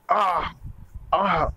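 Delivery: short acted "ah" of pain; acted yelp of pain; pained groan. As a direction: cry out briefly from a thorn prick. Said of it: "दर्द से चिल्ला रही थी".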